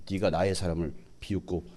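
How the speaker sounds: low, quiet stern rebuke; a hint of a stern God scolding; God rebuking. God confronting those who mock his prophet, lightly voiced quiet rebuke. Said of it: "하나님은 다 듣고 계십니다".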